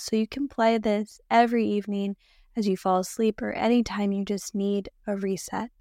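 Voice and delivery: ordinary delivery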